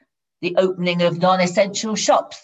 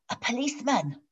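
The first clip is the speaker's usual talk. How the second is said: put-on soft, higher small-child voice; hushed, like a tiny kid; little child voice; 6 semitones higher, 6 dB quieter than usual. A narrator's reading. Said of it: "said the little voice".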